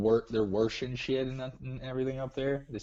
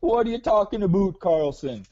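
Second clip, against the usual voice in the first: mock drill sergeant bark; 8 semitones higher, 8 dB louder than usual. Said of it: "the drill sergeant would be like".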